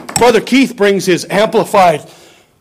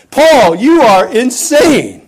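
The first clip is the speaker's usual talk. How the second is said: raised, slow accusing cry; Festus shouting; 6 semitones higher, much slower than usual. Retold or imitated. Festus yelling at Paul, raised and slow. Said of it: "and he says".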